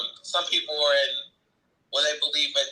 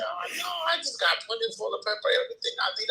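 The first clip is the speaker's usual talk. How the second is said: mock confident boast; 14 semitones higher, faster than usual.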